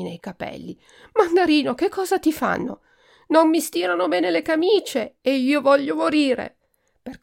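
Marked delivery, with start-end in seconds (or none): 1.1-2.8 much higher, louder frantic call; alarmed. A narrator's reading. Alarmed aunt rushes in. 3.3-6.6 much higher, petulant wail; spoiled duke wailing about his shirts; whiny tantrum. A narrator's reading.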